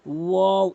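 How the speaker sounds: ওয়াও drawn out with rounded lips; waw demo. Shown as a demonstration. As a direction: stretch ওয়াও as a full Arabic waw. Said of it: "এভাবে উচ্চারণ করবেন". (ওয়াও টেনে স্পষ্ট উচ্চারণ)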